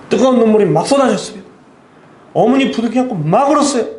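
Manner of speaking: high, loud emotional preaching; impassioned testimony. Real, not acted. Preacher recalling tears with the mother, impassioned testimony. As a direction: let the memory lift the voice.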